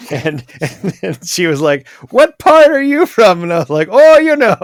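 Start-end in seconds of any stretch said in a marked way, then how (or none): 2.1-3.4 put-on Irish lilt accent. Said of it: "spoke in the same accent as Sarsa". 3.9-4.5 put-on Irish lilt accent. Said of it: "spoke in the same accent as Sarsa".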